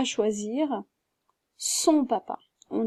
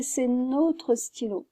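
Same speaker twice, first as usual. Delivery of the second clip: C'est notre stylo, spoken slowly with each word set apart; slow model sentence; slower than usual. Shown as a demonstration. Teacher reads the example sentence slowly to the class. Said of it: "donc je dirais".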